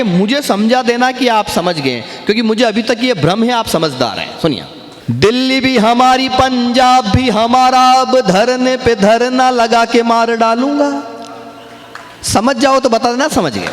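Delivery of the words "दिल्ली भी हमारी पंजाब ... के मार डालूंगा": slow, drawn-out poetic declamation; kavi sammelan recitation. Acted. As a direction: recite each line with relish, stretching the words. Recites satirical poem to audience. (मंच पर कविता पाठ का धीमा, खिंचा हुआ अंदाज़)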